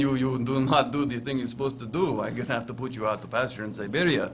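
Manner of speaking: a light mock Russian accent. Co-host playing Putin scolding the host, light Russian accent. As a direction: address him as a Russian boss would, in a Russian accent. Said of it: "that was my Russian accent".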